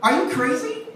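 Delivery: loud, high incredulous rant; mock outrage. Telling off the ride operator at Kansas City, mock outrage.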